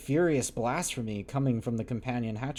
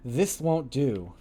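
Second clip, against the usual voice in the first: firm reproach; slower than usual. Acted. Montgomery reproaches drunken captain.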